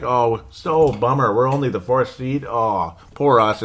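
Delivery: slow, sarcastic fake pity; mock the rival team moaning about their seed; mock whining. Fan mocks Chicago whining about its playoff seed. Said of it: "They're like".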